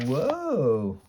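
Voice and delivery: high, drawn-out "whoa"; startled whoa. Acted. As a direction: yelp as if suddenly grabbed. Grabbed by mother mid-run.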